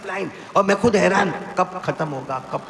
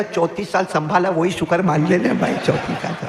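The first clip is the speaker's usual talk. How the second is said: laughing punchline. Retold or imitated. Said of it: "laughing punchline".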